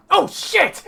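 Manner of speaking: loud, high cry of alarm; panicked gnome yell. Acted.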